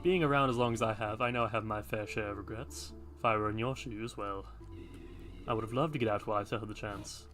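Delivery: a hint of a solemn old guardian; hooded man voice.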